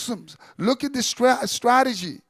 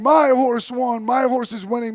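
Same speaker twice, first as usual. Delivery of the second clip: raised voice, imitating an excited shout; retold shouting; 2 semitones higher, 3 dB louder than usual. Rider's son cheering his horse at the race, retold shouting. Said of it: "he starts shouting".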